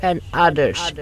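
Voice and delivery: loud, forceful scolding, slow at the start; loud reproach to a friend; angry accusation. Acted. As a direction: lay into him hard. Narrator confronts Neert angrily.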